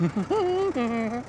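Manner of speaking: gloating chuckle. Acted. Villain laughs.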